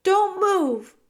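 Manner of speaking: high, loud warning; threatening command. A narrator's reading. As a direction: order your enemy to freeze. Mouse threatens rat with a needle.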